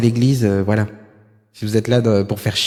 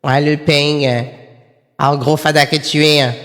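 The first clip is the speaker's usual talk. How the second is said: put-on Midi twang, pushed hard; mock Southern French accent; 5 semitones higher than usual. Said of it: "Lui, il croit que dans le Sud".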